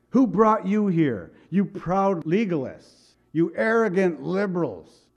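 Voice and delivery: strong rebuke. Acted. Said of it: "It's really strong language".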